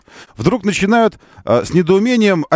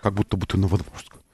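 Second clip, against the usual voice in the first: подражание Новодворской; 8 semitones lower, 9 dB quieter than usual. Retold or imitated. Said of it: "Новодворская очень персонифицированно говорила".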